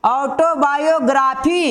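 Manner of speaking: ऑटोबायोग्राफी in clear parts, "auto-bayo-gra-phi"; syllable by syllable. Shown as a demonstration. Teacher counting syllable parts, ऑटोबायोग्राफी in distinct chunks. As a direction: sound out each part of ऑटोबायोग्राफी. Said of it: "इसको चार खंडों में बोले".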